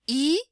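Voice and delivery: I with rounded lips, the French U. Shown as a demonstration. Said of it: "Fazer a boca do U e falar".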